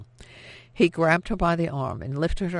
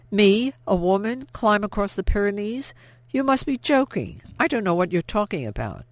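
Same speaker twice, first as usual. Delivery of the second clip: high, incredulous frightened protest; panicked disbelief; 7 semitones higher, 4 dB louder than usual. A narrator's reading. Woman insists to the interrogator it's impossible, high and frightened. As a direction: play dumb in pitched-up panic.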